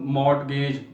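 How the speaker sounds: मॉर्टगेज with the t sounded, mort-gage; the common misreading मॉर्टगेज; wrong pronunciation. Shown as a demonstration. Teacher showing the common error, मॉर्टगेज. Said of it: "this is not the word mortgage".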